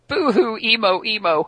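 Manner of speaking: high-pitched mock crying taunt; mocking boo-hoo. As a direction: tease like a playground bully. Mocking the whining villain.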